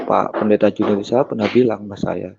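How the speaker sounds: usual speaking voice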